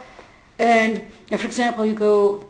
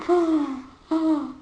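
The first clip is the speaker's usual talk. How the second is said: higher, acted shocked gasping; mock shock; 4 semitones higher, 3 dB louder than usual. Teacher retelling own reaction to the news, mock shock. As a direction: react as if shocked, laughter creeping in.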